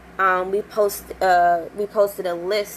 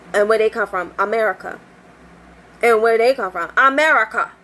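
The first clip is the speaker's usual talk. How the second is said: each answer firmer, building from mild to fed up; mounting exasperation; 2 semitones higher than usual. Retold or imitated. Repeated question, growing irritation.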